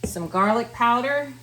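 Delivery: talking with slipping dentures; words slurred by loose false teeth. Real, not acted. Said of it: "lost my teeth".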